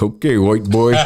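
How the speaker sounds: retold laughing taunt; amused mockery. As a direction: humor the newcomer with a mocking okay. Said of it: "laughing. He's like".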